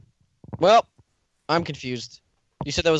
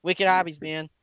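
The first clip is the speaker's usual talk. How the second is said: put-on Boston accent with dropped r's; slower than usual. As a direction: drawl it like a Bostonian. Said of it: "I'm talking in a Boston accent".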